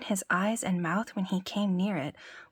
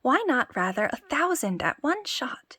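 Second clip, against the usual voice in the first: boasting tailor; 5 semitones higher than usual. Acted. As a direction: brag grandly to the giant.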